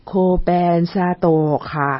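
slow, slurred stroke-patient voice; slurred drawn-out speech. Retold or imitated. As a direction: stretch and slur every word. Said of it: "แล้วก็เสียงยืดๆแบบเนี้ย".

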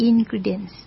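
"ingredients" said very slowly, every syllable clear; slow model word. Shown as a demonstration. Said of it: "หัดออกเสียง บ่อยๆนะคะ". (พูดคำว่า ingredients ช้าๆ ชัดทุกพยางค์)

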